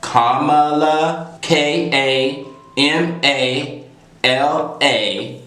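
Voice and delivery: Kamala said slowly as KAH-muh-luh then spelled letter by letter; slow spelled-out name. Shown as a demonstration. Teaching viewers how to say Kamala, slow and careful. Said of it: "pronounce the name Kamala".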